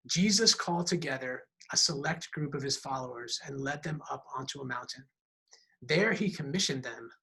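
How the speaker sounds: steady, measured reading of the passage; scripture reading. Acted. Pastor reading Mark to the congregation, measured and steady. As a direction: read it out for the church to follow. Reads Mark chapter three.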